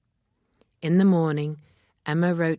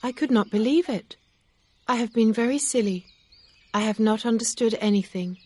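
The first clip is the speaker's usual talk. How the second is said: higher-pitched, louder heroine's voice; Emma, self-reproachful; 7 semitones higher, 4 dB louder than usual. Acted. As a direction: voice a story heroine admitting her mistake, pitched up.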